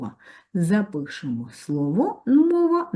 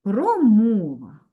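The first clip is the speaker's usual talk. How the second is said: slow dictation; 3 semitones higher, 3 dB louder, slower than usual. Shown as a demonstration. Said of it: "Кома, ще".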